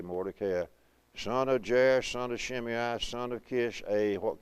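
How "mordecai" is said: "Mordecai" stressed on KAY, mor-de-KAY-eye; accented long A. Shown as a demonstration. Preacher explaining the marks, "Mordecai" accented on the KAY. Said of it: "accent on the C A".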